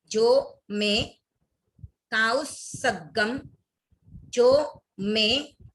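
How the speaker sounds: "इच्छामि ठायुम काउसगम जो मैं" slowly, word by word, each set apart by pauses; pronunciation demo. Shown as a demonstration. Teacher modelling sutra words for students to repeat, slow careful pronunciation. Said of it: "देखते हैं उच्चारण".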